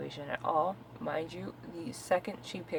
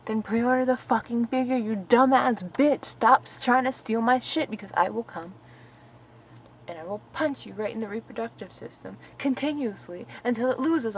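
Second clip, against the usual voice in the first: loud, pitched-up tirade; fed-up outburst, louder and higher; angry threatening rant; 5 semitones higher, 7 dB louder than usual. Acted. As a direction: lay into the thief, hammering the swear words. Furious rant at imagined package thief.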